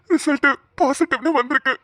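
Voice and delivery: moved, elated husband; overjoyed announcement. Acted. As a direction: deliver the good news brimming with joy. Husband joyfully reveals test result.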